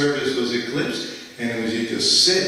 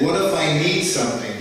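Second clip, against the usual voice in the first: retold angry yell; 5 semitones higher, 4 dB louder than usual. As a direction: bark it out like a guru who was kept waiting. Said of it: "he's screaming at me".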